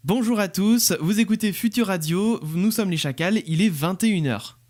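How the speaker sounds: bright and friendly, with a smile; smiling voice. Shown as a demonstration. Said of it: "un discours qui souriait et pas l'autre".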